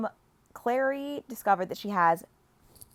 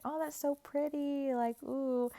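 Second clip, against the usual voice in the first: high, breathy-free gush of delight; mock swooning; 9 semitones higher, slower than usual. Clary gushing to Jace over flowers, high and delighted. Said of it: "she's like".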